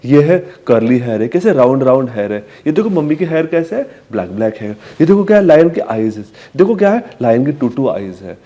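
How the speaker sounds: put-on sing-song baby talk; talking to a toddler. Shown as a demonstration. Mother showing her curly hair to her child, sing-song. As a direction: point and name for the little one. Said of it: "अपने खुद के बाल उसे दिखा सकते हो".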